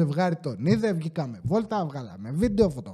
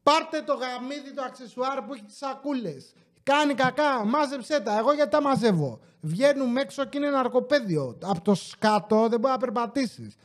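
pitched up high, calling out at dog owners; raised shouting voice; 4 semitones higher, 3 dB quieter than usual. Real, not acted. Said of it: "φωνάζω, θα κόψει". (υψωμένη φωνή που μαλώνει)

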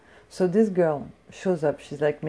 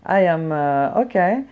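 reeling at the insult; shocked; 6 dB louder, slower than usual. Retold or imitated. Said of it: "And I'm like".

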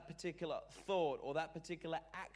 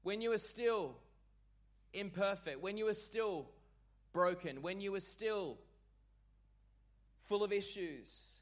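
rising preacher refrain; 4 semitones higher than usual. Real, not acted.

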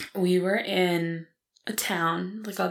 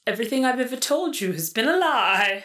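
put-on British accent; 5 semitones higher, 3 dB louder than usual. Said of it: "You sound like someone off of Call the Midwife".

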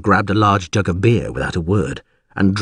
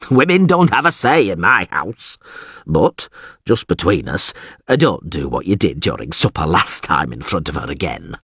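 blustering alderman turning confidential; 3 semitones lower than usual. Acted. Alderman talking about his household to Geralt, blustering then confiding. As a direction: boast first, then sheepishly confide.

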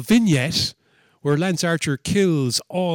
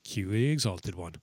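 entrance cue; 6 semitones lower, 7 dB quieter than usual. Retold or imitated. Announces the entrance in recap.

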